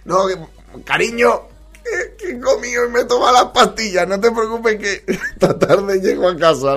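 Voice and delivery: put-on retelling the old man's words while laughing; can barely get the line out for laughing; laughing through the quote. Vlogger quotes the man's message to his wife, laughing. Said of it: "y dice".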